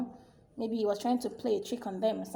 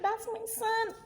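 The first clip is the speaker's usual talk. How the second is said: proud mother; 11 semitones higher than usual. Acted.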